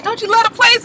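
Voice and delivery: high fake-sweet wife voice; sweet-talking wife. Recapper voicing the wife sweet-talking her husband, high. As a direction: coax him sweetly. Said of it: "she was just like".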